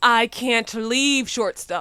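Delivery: emphatic delivery. Told to leave, the stranded one answers the other with emphasis. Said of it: "(with emphasis)".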